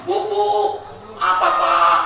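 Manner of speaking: wife answering, calling out high; husband yelling for wife, she answers. Acted. Husband shouting from the bathroom, wife answers loudly.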